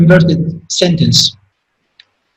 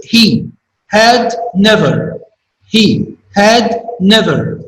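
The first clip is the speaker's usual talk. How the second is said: slowed for emphasis; slower than usual. Shown as a demonstration. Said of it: "especially at the first three words".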